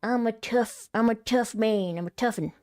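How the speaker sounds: loud, high-pitched mock tough guy; hammed-up tough-guy boasting; tough man. Channelling an inner tough man, hammed-up loud swagger. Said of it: "channel my inner".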